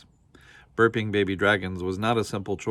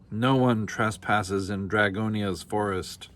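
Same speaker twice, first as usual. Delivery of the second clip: slow dragon threat; slower than usual. Acted.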